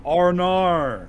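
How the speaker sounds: loud, high Aussie shout; Australian accent. Pretend. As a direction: call it out in a bright Aussie accent. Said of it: "We gotta do some Australian accent".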